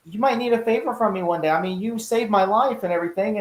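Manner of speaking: sly, ingratiating villain reminding Gordon of a debt; imitating Penguin. Retelling Penguin reminding Gordon he owes him, lightly voiced.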